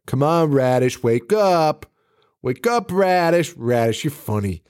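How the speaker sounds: rising, pleading cajole; a hint of a silly girlfriend; mock coaxing. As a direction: coax him to wake up playfully. Voicing Courtney at body.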